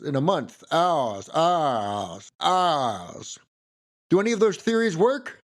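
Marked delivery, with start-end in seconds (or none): 0.7-3.4 long, R-less Southern "ahs"; genteel Southern accent. Shown as a demonstration. Narrator testing a friend's theory, genteel R-less Southern accent. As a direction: stretch "hours" into a Southern "ahs". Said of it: "a genteel Southerner saying hours".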